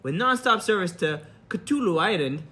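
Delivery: lightly acted cabin announcement; flight attendant voice. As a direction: airline welcome over the intercom. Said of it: "I'm gonna do the regular voice".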